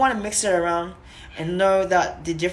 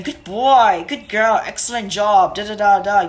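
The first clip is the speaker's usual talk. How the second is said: praising a dog; 6 dB louder than usual. Shown as a demonstration. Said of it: "we give them a high voice".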